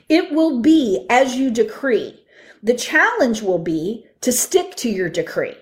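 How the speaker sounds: slow, grave pronouncement; solemn voice of the Lord. Retold or imitated. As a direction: speak it slowly as a divine decree. The Lord speaks to her.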